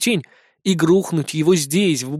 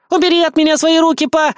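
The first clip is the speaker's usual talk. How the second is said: high, loud bratty whine; whiny; 11 semitones higher, 5 dB louder than usual. A narrator's reading. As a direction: throw a spoiled tantrum. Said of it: "закапризничала она".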